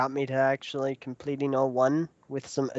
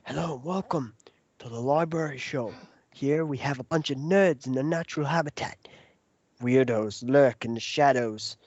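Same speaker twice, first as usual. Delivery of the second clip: nature show narrator. Pretend. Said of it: "make it like the Rahi show".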